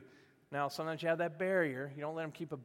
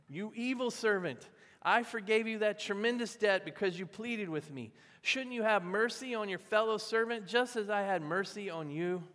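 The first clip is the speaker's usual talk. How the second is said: higher, forceful retold rebuke; angry king; 5 semitones higher, 4 dB louder than usual. King rebuking the servant he forgave, angry. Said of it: "Then the angry king".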